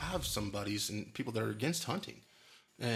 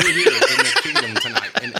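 lightly hammed-up herald welcoming to the kingdom, much higher and louder, laughing; mock grand announcer; 14 dB louder than usual. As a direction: announce the guest like a royal herald, half laughing. Host welcomes guest, grand joke.

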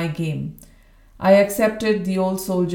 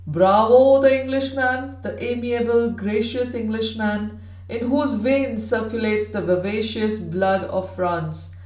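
put-on hoarse old soldier. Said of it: "a barrack room intonation of the worst order".

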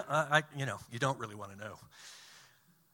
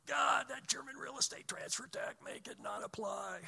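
very high-pitched comic plea; mock-desperate pleading; 9 semitones higher than usual. Consultant praying the German tax away, hammed-up pleading. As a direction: beg in a high, hammed-up prayer voice. Acted desperate prayer, for comedy.

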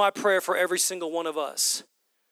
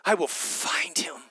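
whispered vow, no voice; 4 dB quieter than usual. Acted. Mary vowing to find Jesus, whispered. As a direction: breathe it as a secret promise. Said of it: "repeated as whisper".

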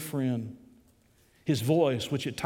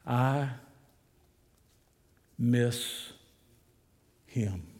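voice cracking; 2 semitones lower, much slower than usual. A narrator's reading. Templeton admits to Strobel he misses Jesus, voice breaking. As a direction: let the voice break on each word. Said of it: "as his voice began to crack".

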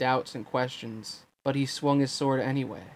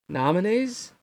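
sharp rising surprise, pitched higher; surprised; 7 semitones higher than usual. A narrator's reading. Sora surprised at Riku's words, rising high. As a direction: caught off guard by the question. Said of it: "as if that surprised him".

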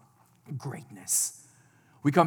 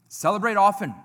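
emphatic repeat; 4 semitones higher, 8 dB louder, faster than usual. Shown as a demonstration. Preacher repeating his final point to the church, emphatic and loud. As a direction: Celebrate often said louder and higher, stressing often.

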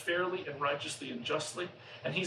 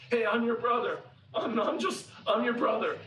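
loud, higher-pitched, joyful announcement; happy reunion cry; 4 semitones higher, 5 dB louder than usual. Retold or imitated. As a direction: burst out with the happy news. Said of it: "and it's happy".

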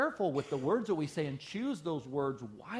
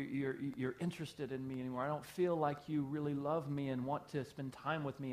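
soft pleading wife; 5 dB quieter than usual. Retold or imitated. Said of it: "your wife may come to you and say".

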